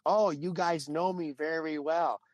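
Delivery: lightly voiced, teasing recognition; imitating amused wrestler. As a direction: stretch it out with playful knowingness. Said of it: "she says in perfect English".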